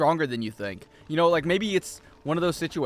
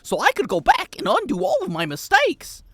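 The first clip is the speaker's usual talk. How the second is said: old-movie actor impression; 9 semitones higher, 4 dB louder than usual. Streamer trying out the forgotten actor's voice, theatrical. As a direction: declaim it like an old screen actor. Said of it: "What is his name?".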